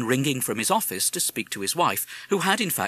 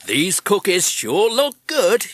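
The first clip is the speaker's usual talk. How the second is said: American parrot voice; 9 semitones higher, 8 dB louder, slower than usual. Acted. Madison the parrot speaking.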